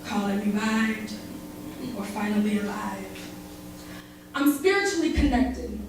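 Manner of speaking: romantic slam poem reading; spoken word love poem. Acted.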